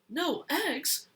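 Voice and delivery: cried. Acted. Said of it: "cried the Farmer Brown".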